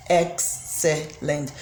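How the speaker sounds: "excellent" slowed down with a long s sound; slow syllable demo. Shown as a demonstration. Teacher repeating "excellent" slowly so students count its syllables. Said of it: "that is three syllables".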